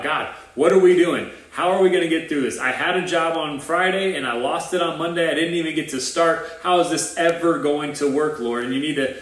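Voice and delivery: a retold panicked plea, rushed and pleading; panicked prayer. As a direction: pastor replays his meltdown prayer to God, anxious and pleading. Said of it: "I just freaked out".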